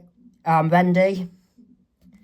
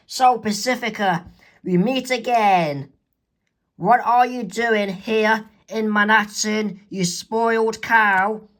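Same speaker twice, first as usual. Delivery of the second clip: slow, higher mock challenge; taunting; 4 semitones higher, slower than usual. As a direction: confront a rival. Mabel argues with rival.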